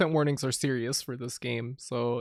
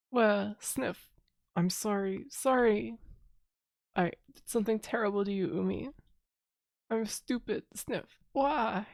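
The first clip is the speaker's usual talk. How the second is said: tearful apology; 4 semitones higher than usual. Acted. Princess apologising to Umi, sniffling and tearful. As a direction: apologise through fake sniffles. Reads crying apology lines.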